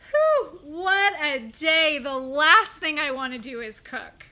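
a loud, hammed-up "whew" from a worn-out guy; imitating the late boyfriend's dramatic tired complaint; mock weary boyfriend. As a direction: act out his big exhausted sigh, slow and loud. Quoting late date's excuse.

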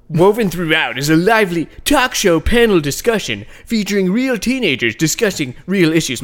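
lightly put-on teen promo voice; promo announcer voice. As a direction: read it like a cheesy video ad. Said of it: "not actually a California teenager voice".

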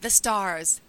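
high, drawn-out excited greeting. Real, not acted. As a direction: hail the star guest. Host hails guest, drawn out.

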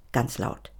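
hushed, no voice at all; whisper. A narrator's reading. Reader keeps whispering the scene aloud. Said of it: "reader whispering in the scene".

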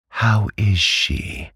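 high, slow question with a fall; pointed, high-voiced aunt; insistent. A narrator's reading. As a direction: demand an answer, pitched high and drawn out. Aunt demands news once more.

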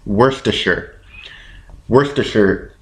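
"Worcestershire" with a short "sher" ending; practised pronunciation. Shown as a demonstration. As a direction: repeat "Worcestershire" carefully, last syllable reduced. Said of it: "say again?".

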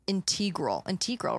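"integral" with an ee in the middle; unsure pronunciation. Real, not acted. Reading the charity blurb, unsure how to say "integral". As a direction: say "integral" as in-TEE-grul, unsure. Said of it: "That's how you pronounce that?".

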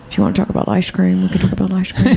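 a light take on Holly Hunter, barely shifted from her own voice; Holly Hunter impression. Host asks for her Holly Hunter, she lightly teases him in it. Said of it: "I like that impression 'cause no one does Holly".

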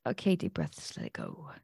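settles from soft to almost nothing; fading to a hush. Retold or imitated. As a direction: let the voice die away as you exhale. Calming herself after outrage.

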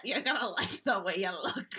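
low put-on slogan; spin doctor voice. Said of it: "that's the voice that I use".

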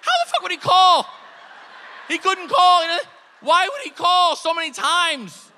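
high, loud exasperated shout; hammed-up furious rant; exasperated yelling. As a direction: yell at him, fed up. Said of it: "I'm like".

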